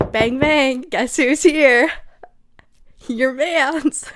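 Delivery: creepy visitor. Acted. Voicing the stalker at door.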